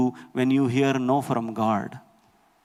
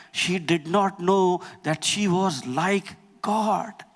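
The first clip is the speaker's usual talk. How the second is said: raised-pitch, emphatic sermon voice; impassioned preaching; 5 semitones higher than usual. Real, not acted. Preacher explaining Eve's mistake to the church, impassioned. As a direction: drive the point home to the congregation, pitch lifted.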